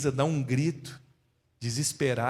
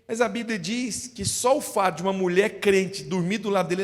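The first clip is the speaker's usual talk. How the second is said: normal talking voice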